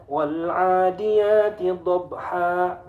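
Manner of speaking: WAL ADIYATI DHABHA chanted slowly, B stopped dead before 'haa'; no echo after B in DHABHA; wrong, no bounce. Shown as a demonstration. Teacher shows forbidden reading, slow unbounced B. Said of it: "Jangan baca".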